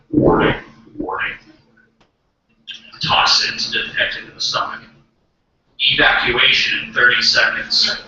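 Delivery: mock emergency alarm announcement; brain's warning signal. Brain warning comic of stomach toxins, alarm announcement. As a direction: announce it like an automated warning system. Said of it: "signal from my stomach, and it goes".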